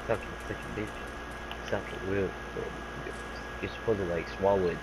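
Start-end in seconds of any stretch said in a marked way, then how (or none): 0.1-3.1 slow, soft whispered tease; mock seductive whisper. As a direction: whisper it slowly, playing at dirty talk. Teasing friend with lewd talk.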